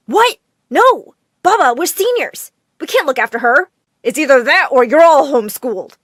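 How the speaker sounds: loud, high shocked screams; screaming twins. Acted. Twins screaming at Baba about babysitting, loud and shocked. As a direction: scream it in protest. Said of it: "both screamed together".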